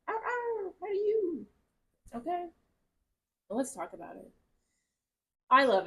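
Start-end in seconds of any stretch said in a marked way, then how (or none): 0.1-2.5 cheering. Real, not acted. Cheering on Aquarius.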